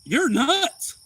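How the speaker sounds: high, loud shout; shouting at a driver pulling away; retold yell. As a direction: yell it after the car. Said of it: "angry shout at driver".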